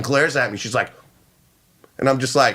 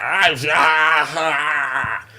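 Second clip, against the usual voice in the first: put-on wordless groan; mother's drawn-out "aah"; much slower than usual. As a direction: imitate the mother's long wordless noise. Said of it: "her mother's just sitting there with the sticks like".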